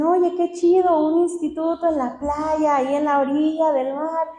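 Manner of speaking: mock-impressed friends gushing a little; imitating admirers. People admiring her beachside institute, imitated enthusiasm. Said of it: "Muchos me dicen".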